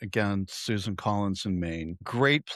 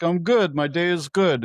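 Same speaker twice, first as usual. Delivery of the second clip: lightly voiced driver, higher and louder; Russian cab driver; 7 semitones higher, 5 dB louder than usual. Cab driver answering passenger's greeting, lightly imitated. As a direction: imitate the driver without really doing the accent. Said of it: "guy driving's Russian".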